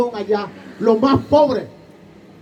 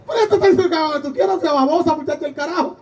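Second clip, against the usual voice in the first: fast, higher, exasperated motherly scolding with a laugh; mock scolding mother; 3 semitones higher, much faster than usual. Mother scolding her daughter.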